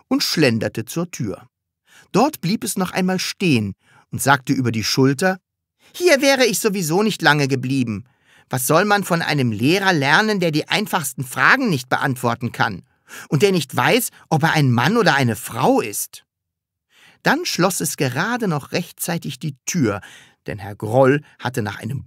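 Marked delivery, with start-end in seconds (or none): 5.9-16.2 slightly high, brisk offhand parting shot; lightly voiced cheeky pupil. Pupil leaving over the shoulder, mildly cheeky. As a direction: toss it back lightly, unimpressed.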